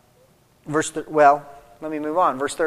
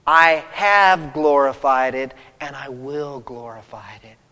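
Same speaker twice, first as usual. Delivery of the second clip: tender approval; 5 semitones lower than usual. Retold or imitated. God the Father speaking approval to Jesus, tender. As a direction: say it gently as a proud father to his son. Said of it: "the spoken approval is from God".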